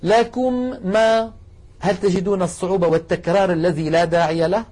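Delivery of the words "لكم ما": "لكم ما" with the mim said twice, very slowly; wrong, unmerged "لكم ما"; repeated mim. Shown as a demonstration. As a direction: stop after "لكم" then start "ما" again. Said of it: "انظروا إلي وجربوا".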